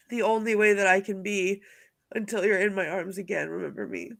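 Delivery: tearful quoting. Retold or imitated. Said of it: "it's the line that says".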